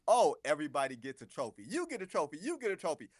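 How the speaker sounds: lightly sarcastic, pitch climbing on the repeats; sarcastic quip. Retold or imitated. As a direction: toss it off as a mocking handout to all. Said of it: "just a sarcastic comment".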